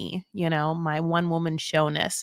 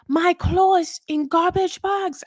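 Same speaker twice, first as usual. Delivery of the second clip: higher, slow whiny quote; mock Manon complaint; 10 semitones higher, slower than usual. Host voices Manon complaining about packing, high and slow. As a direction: whine it out, pitched up. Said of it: "she's like".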